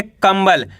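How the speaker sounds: कंबल with the nasal as a half m: kam-bal; half m sound. Shown as a demonstration. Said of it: "इसका उच्चारण अपन को आधा माँ के रूप में करना है". (कंबल को आधा म लगाकर कम्बल पढ़ें)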